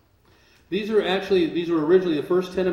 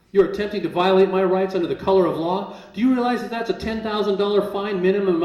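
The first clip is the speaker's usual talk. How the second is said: raised, pressing string of legal challenges; indignant rebuke; 4 semitones higher, 4 dB louder than usual. Retold or imitated. Man lecturing a marshal on his rights, indignant rebuke. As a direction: fire off charges like a retold courtroom tirade.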